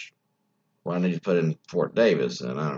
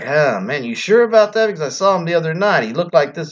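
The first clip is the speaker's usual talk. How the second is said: lightly voiced Telly Savalas, much higher and louder; a hint of an incredulous Telly Savalas, pitched way up; retold Telly Savalas; 9 semitones higher, 5 dB louder, faster than usual. Retelling Telly Savalas doubting the widow, higher, incredulous.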